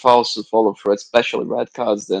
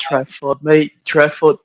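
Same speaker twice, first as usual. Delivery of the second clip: excited, raised exclamation; overexcited; 3 semitones higher, slower than usual. Real, not acted. Viewer reacts to Trafford mid-discussion, overexcited. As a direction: get carried away over the keeper. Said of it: "I got overexcited".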